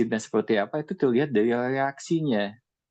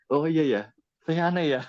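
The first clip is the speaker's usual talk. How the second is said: higher, hesitant mock realization; higher, unsure mock voice; self-doubting realization; 6 semitones higher than usual. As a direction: play someone suddenly doubting themselves. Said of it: "Kalau nggak siap kan jadinya".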